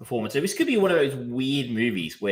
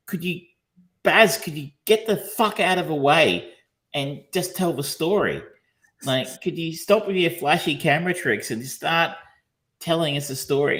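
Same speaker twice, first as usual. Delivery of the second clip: raised, emphatic mock appeal; exasperated plea; 6 semitones higher than usual. Viewer begging Baz to tell the story, exasperated. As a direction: plead with the director, fed up.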